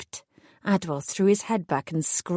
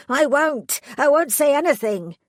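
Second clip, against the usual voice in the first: cowering plea; 7 semitones higher, 4 dB louder than usual. A narrator's reading. Cowering with fear.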